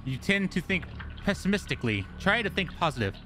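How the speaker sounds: a gentle mother soothing her son. Acted. Mother voice again.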